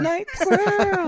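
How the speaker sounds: high, slow superhero announcer; dramatic title voice. Pretend. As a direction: stretch it like a comic title.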